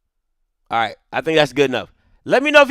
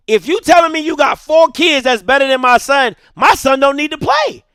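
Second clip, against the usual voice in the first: indignant dad ranting, pitch raised; pissed off; 3 semitones higher, 3 dB louder than usual. Retold or imitated. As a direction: retell a defiant challenge to the coaches. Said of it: "I, I'm pissed".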